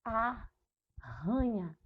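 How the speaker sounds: Arranha stretched very slowly, one R sound; drawn-out demo. Shown as a demonstration. Teacher modelling the word very slowly for pupils. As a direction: draw out Arranha so each sound is heard. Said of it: "Eu não consigo perceber o som dos dois R's".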